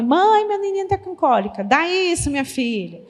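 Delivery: high, fast, fretting call to mom; anxious young mother. Retold or imitated. Daughter phoning her mother about colic, frantic and high. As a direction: rush it out like a worried new mom.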